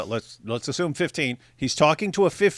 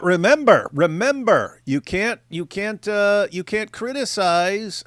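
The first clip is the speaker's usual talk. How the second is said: loud, higher, mocking insistence; mock emphatic; 6 semitones higher, 4 dB louder, slower than usual. Host mocking a debater's excuse, loud and sarcastic. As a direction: sarcastically hammer the reminder.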